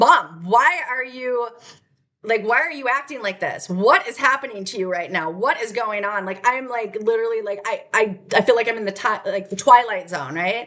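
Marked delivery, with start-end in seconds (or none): 0.0-6.3 acted-out upset, pleading tone. Retelling what the speaker said as Mom storms out: retelling upset pleading. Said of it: "she just storms out because I'm like".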